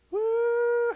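sudden high, loud "woo"; very high, loud celebratory woo; joyful whoop. Acted. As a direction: let out a jubilant whoop. Joyful shout in sermon.

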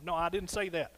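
ordinary talk, nothing marked

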